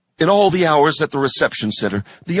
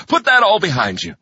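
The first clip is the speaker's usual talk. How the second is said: bright, higher chirp; chirpy; 7 semitones higher, 3 dB louder than usual. A narrator's reading. Narrator cheers homesick recruit, chirping higher. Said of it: "I chirped".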